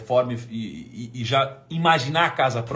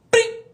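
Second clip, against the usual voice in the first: a sharp high "plim" like a phone alert; high notification chime; 10 dB louder than usual. Retold or imitated. The first sale arrives, imitated phone ping.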